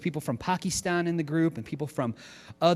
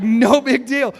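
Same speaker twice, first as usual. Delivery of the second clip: casual shrug; 8 semitones higher, 11 dB louder, slower than usual. Retold or imitated. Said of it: "he's like".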